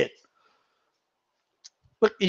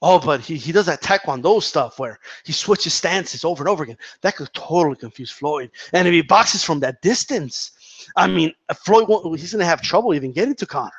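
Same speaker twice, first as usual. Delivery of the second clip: lower, softer mock pundit musing; imitating Joe Rogan; 4 semitones lower, 5 dB quieter than usual. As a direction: lightly play a rambling commentator, talking himself into it. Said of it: "Joe Rogan goes".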